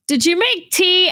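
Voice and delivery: clueless question. Retold or imitated. Husband asking his crying wife about tea, mock-innocent. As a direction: play dumb and oblivious. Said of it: "he's like".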